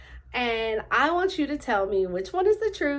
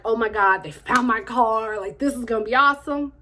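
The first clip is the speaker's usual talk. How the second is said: mock excitement; 5 dB louder than usual. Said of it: "I'm like".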